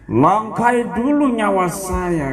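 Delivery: mock defiant challenge. Defiant boyfriend defending his girlfriend.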